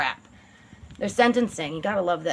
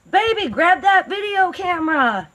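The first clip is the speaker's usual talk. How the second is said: higher, louder eager mock order; creepy boyfriend; 9 semitones higher, 4 dB louder than usual. The speaker telling Carla to film, eager mocking imitation. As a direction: bark it like a gleeful demand.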